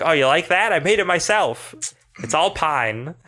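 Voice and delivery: proud barkeep. Acted. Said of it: "Brogan might be like".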